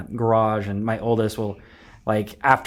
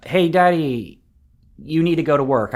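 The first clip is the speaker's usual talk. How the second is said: higher-pitched imitation of a toddler; two-year-old daughter; 5 semitones higher than usual. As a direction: lightly mimic a little girl addressing her daddy. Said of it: "mimicking her older sister".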